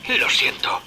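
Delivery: hushed apologetic whisper. Acted. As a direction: whisper it like you're ashamed. Trapped man apologising in secret.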